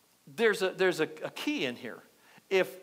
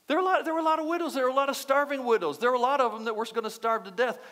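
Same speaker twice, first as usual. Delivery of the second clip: higher and fast, pressing the word lot; fervent emphasis; 5 semitones higher, faster than usual. Real, not acted. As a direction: preach it with rising urgency. Preacher stresses many starving widows.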